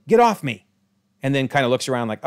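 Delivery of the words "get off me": sudden high, loud yelp; a startled outburst at nothing; retold scream. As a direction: shout it out of nowhere. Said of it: "she just screams randomly".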